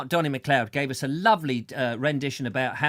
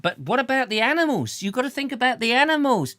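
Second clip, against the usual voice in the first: mock concern; 10 semitones higher, 4 dB louder than usual. Mock concern, voicing a protest.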